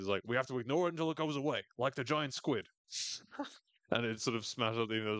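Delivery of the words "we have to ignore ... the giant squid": fast, lightly put-on cartoon voice; Family Guy quote. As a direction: rattle it off like a cartoon character. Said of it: "another Family Guy reference".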